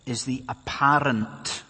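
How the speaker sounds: "apparent" drawn out slowly with weight; slow, deliberate emphasis on "apparent"; stress on apparent. Real, not acted. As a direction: lean on the word "apparent", stretching it. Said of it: "and I stress that word".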